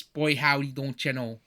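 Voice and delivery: a lightly done folksy Midwestern twang; mock Midwestern accent. Shown as a demonstration. Mocking Dan Aykroyd's character with a light Midwestern accent. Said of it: "he doesn't have to be like this".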